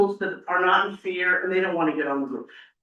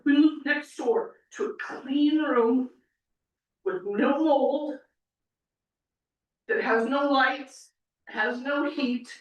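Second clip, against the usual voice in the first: fighting tears; 2 semitones higher, slower than usual. Real, not acted. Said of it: "I don't know why I'm crying".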